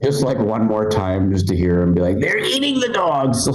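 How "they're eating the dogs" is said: high, drawn-out political impression; Donald Trump. Comic recalls a campaign line, as Trump. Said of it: "do a Trump impression".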